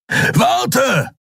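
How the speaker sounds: high shouted call. A narrator's reading. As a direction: shout it after someone running off. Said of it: "rief Kero".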